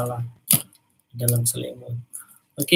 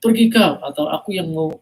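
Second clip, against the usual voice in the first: louder, growling hungry giant; threatening giant; 4 dB louder than usual. Acted. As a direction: threaten the rival loudly. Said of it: "kata dia gitu".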